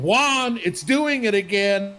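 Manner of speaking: lightly voiced fretting woman; worried woman. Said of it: "this woman going".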